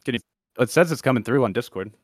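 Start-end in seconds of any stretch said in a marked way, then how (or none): 0.0-0.2 choppy, breaking-up internet call; garbled call audio. Real, not acted. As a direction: voice garbled over a bad connection. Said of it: "you're all garbled".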